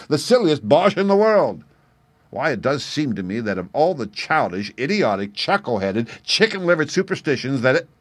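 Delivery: loud, high, scornful shout; mocking shout at a rival magician. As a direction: bellow your contempt for Merlin. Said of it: "and shouted".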